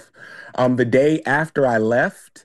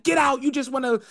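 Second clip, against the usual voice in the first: mimicked cursing; 10 semitones higher than usual. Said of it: "She's cursing".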